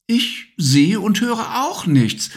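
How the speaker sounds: mother reassures her sleepy son; mother's voice. Acted. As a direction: soothe the child lightly. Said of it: "sagte Mama".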